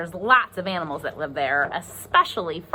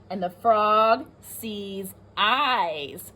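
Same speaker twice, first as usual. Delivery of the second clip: lively storybook read-aloud; reading to children; 2 semitones higher, slower than usual. Acted. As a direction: read it like a picture book to kids. Reads the book aloud.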